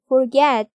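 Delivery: forget with the stress on the second syllable, for-GET; teacher demo of forget stressed on GET. Shown as a demonstration. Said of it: "둘째 음절 get에 오죠".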